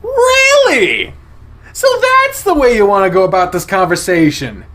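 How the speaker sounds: high, loud furious shout; angry outburst. Acted. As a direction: let Chase explode at him, voice pitched high. Chase snaps at Leo.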